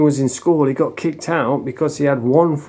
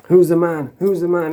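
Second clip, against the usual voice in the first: higher, punchy victor's challenge; mock taunting demand; 5 semitones higher than usual. Attacker pounding the troll, mock taunting. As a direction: imitate a bully demanding submission.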